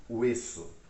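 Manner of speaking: "Hueso" with the H left unsounded; silent H. Shown as a demonstration. Teacher explains the H has no sound, silent H in "Hueso". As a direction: say "Hueso" as WE-so, opening on a W glide. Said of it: "não tem som".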